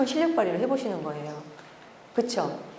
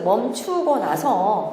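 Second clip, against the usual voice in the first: slow emphasis; 3 dB louder, much slower than usual. Shown as a demonstration. Teacher repeats phrase slowly.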